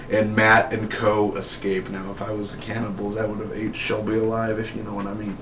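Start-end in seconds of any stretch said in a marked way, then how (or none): 1.9-5.4 hushed hissy snake voice, lightly done; a sly snake, half-hearted. Retold or imitated. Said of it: "a horrible impression of me trying to, trying to do a snake".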